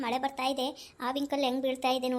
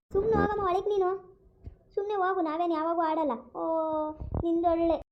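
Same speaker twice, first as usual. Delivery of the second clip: put-on child voice; 4 semitones higher than usual. Child talks back to mother.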